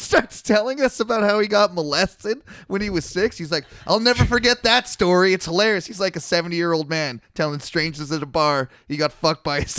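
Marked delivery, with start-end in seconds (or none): 3.9-5.9 put-on higher and louder, gleeful old drunk; drunk old man. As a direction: ham up the proud drunk geezer laughing at his story.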